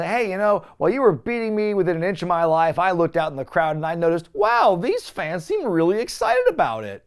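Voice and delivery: the host mocks the rival's speech with a lightly sing-song voice; mocking paraphrase. Lightly mocking impression of Cena's odd speech. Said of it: "what a weird thing to go".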